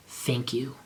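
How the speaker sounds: soft whispered thank you. Acted. Draco thanks Ebony, softly whispered. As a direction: breathe the thanks under your voice. Quiet reply after being praised.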